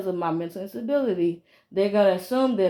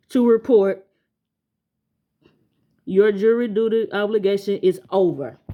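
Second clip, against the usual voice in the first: reading the letter; 3 dB louder than usual. Shown as a demonstration. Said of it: "I'm gonna read it to you".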